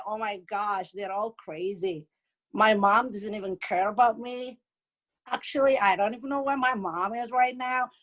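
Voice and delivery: lightly voiced complaining friend; imitated daughter's friend. Friend griping to daughter about mothers, lightly imitated. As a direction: mimic a friend's blasé phone gossip. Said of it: "And then her friend".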